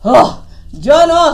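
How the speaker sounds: lightly voiced rabbit, loud drawn-out refusal; rabbit refusing. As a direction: blurt out a loud, slow no as the rabbit.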